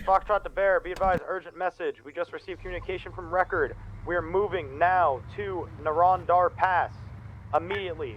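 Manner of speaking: loud, formal radio report; urgent radio call. Acted. Urgent radio message to command.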